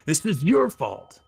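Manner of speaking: slow, high, loud blame; furious accusation. Acted. Axe shoves the orb into the hobgoblin's chest, slow furious accusation. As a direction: hurl it at him as you shove.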